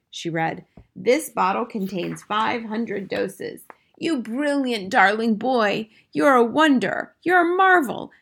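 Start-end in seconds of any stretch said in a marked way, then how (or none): 1.0-3.6 slow, deliberate label reading; measured, drawn-out delivery; reading aloud. A narrator's reading. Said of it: "read the label aloud". 4.0-8.1 grandmother building to a high, loud exclamation; slow start, soaring finish; delighted praise. A narrator's reading.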